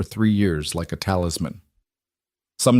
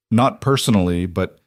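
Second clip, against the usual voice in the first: voice cracking. Acted. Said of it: "Luke's voice cracked".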